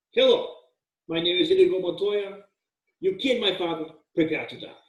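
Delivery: mock Spanish swordsman, badly faked Spanish accent; deliberately atrocious Spanish accent, a duel challenge. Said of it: "That was an atrocious accent".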